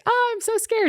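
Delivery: high, breathless whispered fear; mock-scared whisper. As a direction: whisper it like you're terrified. Colleague scared before CEO meeting.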